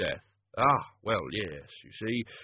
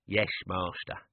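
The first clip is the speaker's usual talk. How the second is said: put-on old servant voice; 4 semitones lower, 4 dB quieter, slower than usual. Albert's voice.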